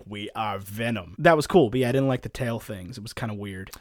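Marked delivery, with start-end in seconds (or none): 0.1-1.1 low, slow gravelly monster growl; lightly voiced Venom; deep Venom voice. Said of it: "he's just like".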